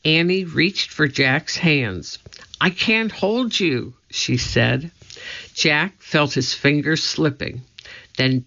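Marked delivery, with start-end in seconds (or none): 2.6-3.9 high, desperate strain; strained and scared. A narrator's reading. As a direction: gasp it out under strain. Straining to hold Jack.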